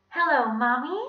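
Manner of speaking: put-on high, loud little-kid voice; Ronnie. A narrator's reading. Villain posing as a child phoning home, high. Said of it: "he said in Ronnie's voice".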